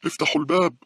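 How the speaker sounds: loud, very high scream; old woman's scream. A narrator's reading. Old woman demanding the door opened, screaming. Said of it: "صرخت العجوز".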